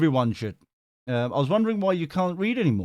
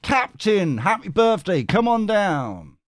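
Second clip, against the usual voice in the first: game-show call; 6 semitones higher, 3 dB louder, slower than usual. Acted. Game-show call for next viewer.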